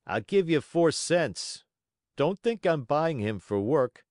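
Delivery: mildly emphatic market buyer; haggling buyer. Acted. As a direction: haggle with a touch of scornful bluster. Buyer haggles over lame donkey.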